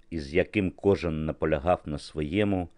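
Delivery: plain reading voice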